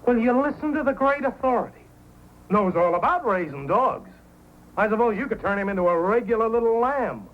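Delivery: high, mocking sneer; mock him as a know-it-all; sarcastic. Buck sneering at Hank's dog know-how, sarcastic.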